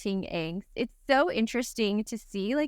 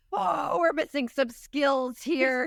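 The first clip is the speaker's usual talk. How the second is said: mock patient mom; 5 semitones higher, much slower than usual. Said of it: "And I'm like".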